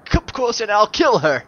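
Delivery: hint of a villain, loud threat; threatening villain voice. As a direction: threaten as a hostage taker. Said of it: "Last minute doing this voice".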